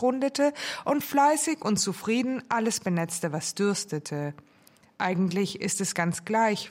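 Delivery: measured audiobook-style narration; composed story reading with lilting phrases; literary reading. A narrator's reading. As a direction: read your own novel aloud, phrase by phrase. Author reads chapters aloud.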